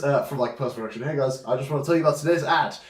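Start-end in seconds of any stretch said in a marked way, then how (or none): 1.0-2.8 quick breezy sponsor-read voice; ad read intro. Shown as a demonstration. Host demoing the sponsor segment, quick breezy read. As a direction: rattle it off like a YouTuber's ad spot. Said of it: "you can be like".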